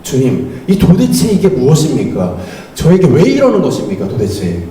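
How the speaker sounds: pleading complaint that drops away at the end; arguing with God. Acted. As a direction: protest to the Lord in mock desperation. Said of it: "주님과 싸우고 있는 나를 발견하게".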